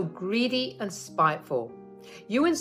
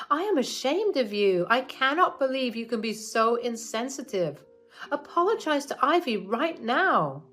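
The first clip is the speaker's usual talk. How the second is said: louder, higher scolding son; angry son; 7 semitones higher, 3 dB louder than usual. Acted. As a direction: demand an apology, ashamed. Son scolds his mother.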